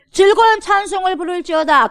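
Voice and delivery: high, loud cry of the verse; joyful shout. Acted. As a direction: cheer the verse like a victory. Shouted verse as victory cheer. (승리의 환호처럼 크게 외침)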